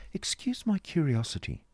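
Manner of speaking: put-on high, polite young woman; high-voiced courteous curiosity; young lady's polite inquiry. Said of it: "she said".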